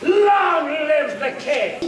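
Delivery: a proud, slow rallying cry; triumphant cry. Acted. Soldier hailing the king in triumph. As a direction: call it out slowly, triumphant.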